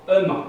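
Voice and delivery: "e main" drawn out loud; ment said as e main. Shown as a demonstration. Teacher spelling out the suffix, loud and drawn. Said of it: "Main, c'est M E N T".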